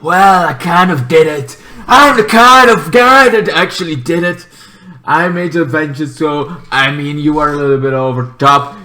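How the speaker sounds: lightly voiced scheming villain; villain confession. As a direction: confess it, a touch smug. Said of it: "a confession to make".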